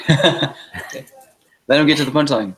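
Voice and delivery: slow words broken by laughter; giggling through the line; laughing while pleading for the punchline. Real, not acted. Laughing at joke setup.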